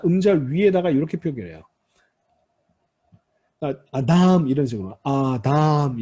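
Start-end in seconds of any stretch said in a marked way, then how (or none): 3.9-4.5 "아담" with the last syllable stressed and drawn out; final-syllable stress. Shown as a demonstration. Teacher showing students Hebrew stress, "아담" stressed on its last syllable. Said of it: "강세가 이렇게 돼 있습니다". 5.0-6.0 "아담" with the last syllable stressed and drawn out; final-syllable stress. Shown as a demonstration. Teacher showing students Hebrew stress, "아담" stressed on its last syllable. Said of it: "강세가 이렇게 돼 있습니다".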